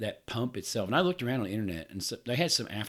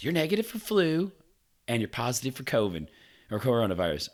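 imitating the nurse; 4 semitones higher, 4 dB louder than usual. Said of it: "And she goes".

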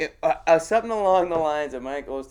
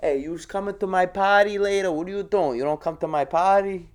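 put-on mild Boston North End accent, a bit higher; lightly voiced Boston North End guy pushing a party invite; North End tough guy; 4 semitones higher than usual. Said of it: "North End Tough Guy".

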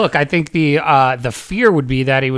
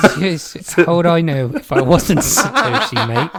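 put-on Australian accent; 3 semitones higher than usual. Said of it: "trying to think about how I would do it".

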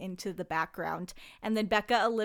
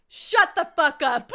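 louder stunned shut the fuck up; shocked outburst; 5 semitones higher, 9 dB louder than usual. Retold or imitated. Reacting to her friend's engagement, loud shocked outburst. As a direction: blurt it in disbelief. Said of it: "immediately was like".

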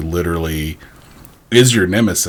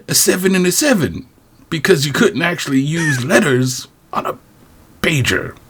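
higher voiced old-timer, lightly; rambling grandpa story; 11 semitones higher than usual. Continuing the old-timer bit.

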